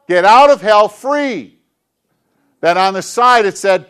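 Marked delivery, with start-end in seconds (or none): 0.1-1.6 slow, loud, each word weighed out; loud slow proclamation. Acted. Pastor reads the card aloud to the kids, slow and loud. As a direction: proclaim the card's words to the whole room.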